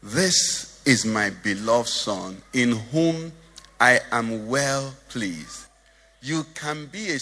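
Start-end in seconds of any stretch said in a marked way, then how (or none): 0.0-5.7 slow, measured divine proclamation; lightly voiced God, drawn out and solemn; voice from heaven. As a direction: declare it slowly as God's announcement. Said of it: "a voice came from heaven".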